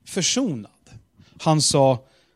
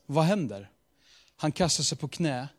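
ordinary talk, nothing marked

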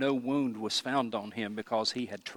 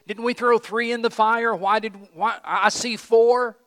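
high, loud, baffled questioning; astonished; 9 semitones higher, 9 dB louder than usual. Acted. Pagan king seeing four in the fire, astonished. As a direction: exclaim like a bewildered king.

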